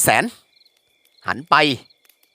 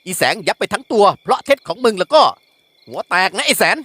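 scolding father voice, raised higher; angry father; 6 semitones higher than usual. Acted. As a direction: berate the son as a furious village headman. (พ่อดุลูกด้วยเสียงโกรธ)

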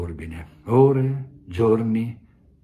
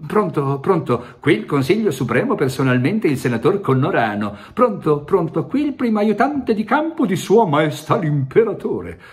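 much higher, louder, ceremonious voices; grand officials calling; 9 semitones higher, 6 dB louder than usual. Acted. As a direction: trumpet each title as if it mattered most. Ever grander callers on telephone.

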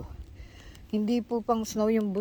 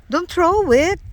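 loud, high scolding call; sharp warning; 7 semitones higher, 9 dB louder, slower than usual. Real, not acted. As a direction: snap it out as a warning. Scolding child about throwing food.

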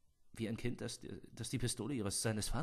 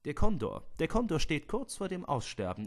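higher, louder, insistent; indignant; 5 semitones higher, 5 dB louder than usual. Acted. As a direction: push back eagerly. Hammond hält dagegen. (empört und höher)

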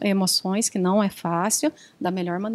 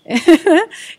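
short, loud burst of laughter; quick amused laugh mid-conversation; 6 semitones higher, 9 dB louder than usual. Real, not acted. Amused by the interjection. (risada curta e alta)

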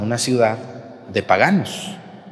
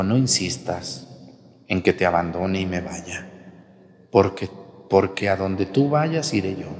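low, measured scripture reading; hushed, low-pitched pledge; reading Ruth's vow aloud; 5 semitones lower, 4 dB quieter than usual. Acted. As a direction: read the vow softly and solemnly, with pauses. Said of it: "Vamos a leer esto textualmente".

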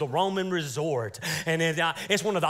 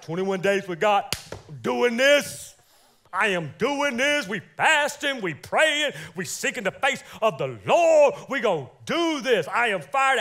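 fired-up believer; 2 semitones higher, 4 dB louder than usual. Pretend. Churchgoer vowing to fast, fired up and louder. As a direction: hype yourself up for the fast. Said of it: "You're like".

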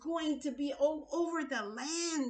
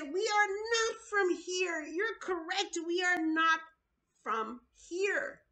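higher, choked with tears on "We are not from here"; urgent tearful plea; 4 semitones higher than usual. Real, not acted. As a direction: plead with real tears in the throat. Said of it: "There's this urgency in my voice".

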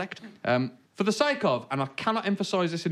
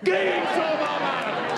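Black Country shout; 11 semitones higher, slower than usual. Shown as a demonstration. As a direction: bellow it across the room. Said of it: "Repeat after me".

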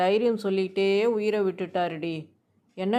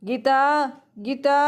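calling out to wife; 5 semitones higher, slower than usual. Acted. Husband calls out to his wife.

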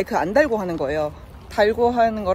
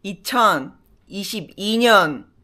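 drumroll reveal; slower than usual. Acted. Drumroll before quiz answer.

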